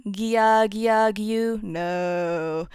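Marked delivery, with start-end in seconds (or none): 0.1-1.6 "gia, gia, gyu" each broken into gi plus vowel; split-syllable gia. Shown as a demonstration. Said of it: "Remember, it's not".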